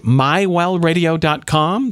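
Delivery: slow, emphatic address. Shown as a demonstration. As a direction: say the address slowly so it sticks. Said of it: "That's my well radio dot com".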